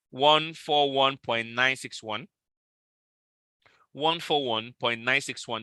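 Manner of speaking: slow, spaced-out digits, softening; dictating figures. Real, not acted. Trader calling out a take-profit price to followers, dictated slowly. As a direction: read the price out slowly, number by number.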